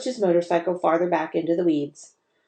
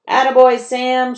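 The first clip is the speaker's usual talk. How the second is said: higher, loud cheer; boys shouting; 6 semitones higher, 7 dB louder than usual. A narrator's reading. Boys cheering Sam's digging, shouting. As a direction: shout praise at the dog. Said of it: "shouted the boys".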